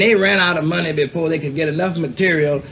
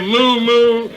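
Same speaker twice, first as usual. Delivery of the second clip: higher, louder hammed-up moo; mock cow moo; 7 semitones higher, 5 dB louder than usual. Drunk imitates animal sounds.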